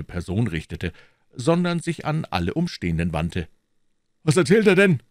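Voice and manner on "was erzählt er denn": smug, louder question, pitched up. A narrator's reading. Porthos asks the musketeers, smug and pleased with himself. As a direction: ask it full of self-satisfaction. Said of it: "in einem selbstgefälligen Tone".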